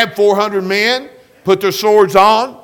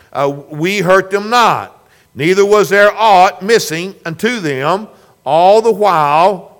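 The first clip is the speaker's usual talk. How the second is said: scripture reading; 3 dB louder than usual. Acted. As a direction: read the verses aloud with solemn weight. Reads scripture passage aloud.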